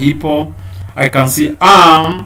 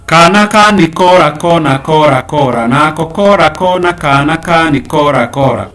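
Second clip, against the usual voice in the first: kana ka ni kora rattled off quickly and loudly; fast tongue twister demo; 3 semitones higher, 4 dB louder than usual. Shown as a demonstration. Teacher shows pupils the tongue twister, quick and bright. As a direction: show how quickly the tongue twister goes. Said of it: "so that you can do it like this".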